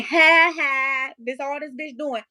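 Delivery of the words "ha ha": imitated loud taunting "ha, ha"; mocking laugh. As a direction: mimic someone laughing in your face. Mimics sister laughing at her.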